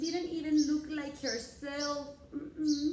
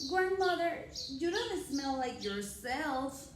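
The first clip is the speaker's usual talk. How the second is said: Little Red voice. Acted.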